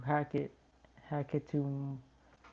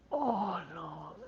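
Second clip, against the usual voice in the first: words stretched by a yawn; 5 semitones higher, 5 dB louder than usual. Real, not acted. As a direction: say it while yawning. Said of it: "yawning a lot".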